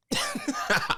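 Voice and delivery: squeaky burst of laughter; high laugh. Real, not acted. Laughing after joke.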